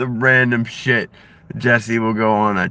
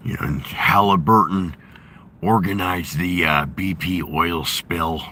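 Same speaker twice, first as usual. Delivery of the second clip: Jesse Ventura impression; 4 semitones lower than usual. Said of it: "I've been working on my Jesse Ventura".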